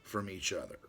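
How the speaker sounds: reading his letter to Brother Ron aloud, formally. Acted. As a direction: read it like a solemn treatise.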